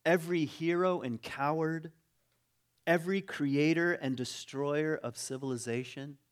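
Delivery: deliberate list, pausing after each item; measured oratorical reading. Acted. Preacher reads a passage to the congregation, measured oratory. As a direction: read out each item with weight.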